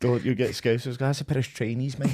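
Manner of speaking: lightly put-on Scouse accent; toned-down Scouse impression, held back; attempted Scouse accent. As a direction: have a half-hearted go at Scouse. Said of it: "Is that your Scouse, eh?".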